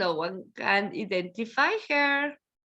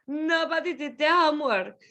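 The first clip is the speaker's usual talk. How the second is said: "Nobody did the homework" said fast; quick repeat; faster than usual. Shown as a demonstration. Teacher repeats it quickly for the class.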